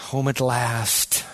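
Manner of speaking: home at last, drawn out slowly; slow, content sigh of relief; slow, peaceful relief. Pretend. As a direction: savor the arrival, unhurried. Believer's confident attitude at arrival.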